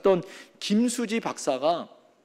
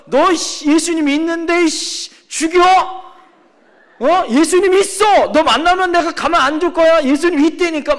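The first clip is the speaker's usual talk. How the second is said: higher, louder angry threats; an angry kid threatening a friend over the phone; a sixth grader threatening his friend, higher and louder; threatening child; 8 semitones higher, 6 dB louder than usual. Retold or imitated. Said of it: "막 이렇게 협박하는 거예요".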